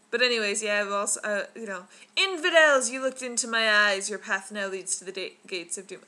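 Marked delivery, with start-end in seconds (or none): 2.2-6.0 loud booming idol proclamation; dark lord. Retold or imitated. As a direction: bellow it like a wrathful god. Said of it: "quoting, the Indiana Jones ride".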